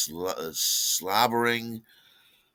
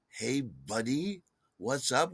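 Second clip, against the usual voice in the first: irritated mimicry; 3 semitones higher, 4 dB quieter, slower than usual. Irritated, quoting the greeting back.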